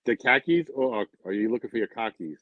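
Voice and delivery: Boston-accented "cockies". Shown as a demonstration. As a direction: say khakis the Boston way. Testing the Boston accent word.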